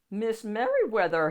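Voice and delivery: loud call down the hall. A narrator's reading. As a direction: call her name from far down the hall. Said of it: "he called as he walked".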